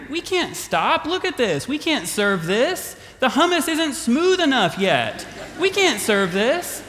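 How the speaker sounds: a hint of Martha panicking over the food; fretting Martha. Martha fussing over the hummus.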